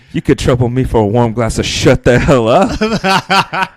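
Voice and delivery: laughing quote. Retold or imitated. Quoting Happy's retort.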